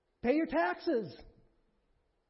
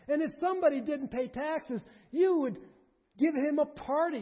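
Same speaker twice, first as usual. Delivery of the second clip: indignant Pilate; 3 semitones higher, 5 dB louder than usual. Acted. Preacher voices Pilate's retort.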